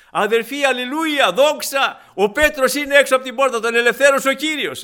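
loud, high, ecstatic announcement; joyful shout. Retold or imitated. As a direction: burst in shouting the good news. Servant girl runs in rejoicing.

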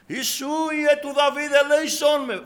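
high, loud beggar's plea; crying out for mercy. Acted. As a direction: call out desperately over a crowd. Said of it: "Φώναζε ο Βαρτίμεος".

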